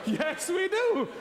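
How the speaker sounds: high, slow, laughing repeat; laughing slow agreement. Retold or imitated. Retelling his reply to the officer, laughing it out slowly. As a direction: drag it out through a laugh.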